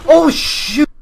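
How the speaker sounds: loud high yelp; startled yelp. Real, not acted. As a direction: jump and yelp. Startled in game.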